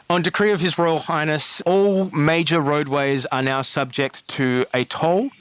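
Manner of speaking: proclaiming the new toll law; formal decree read. Acted. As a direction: read it out like a royal herald.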